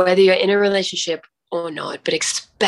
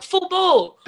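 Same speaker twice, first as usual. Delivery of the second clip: Aussie slang, repeated; 12 semitones higher, 3 dB louder than usual. Retold or imitated. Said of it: "a bit of my Aussie broken coming out".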